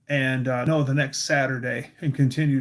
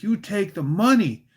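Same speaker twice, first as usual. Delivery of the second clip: imitated insistent, higher-pitched order; lightly voiced angry old Busha; mad grandmother; 5 semitones higher, 3 dB louder than usual. Busha pushing cash on the boys, mock angry. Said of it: "And she was mad".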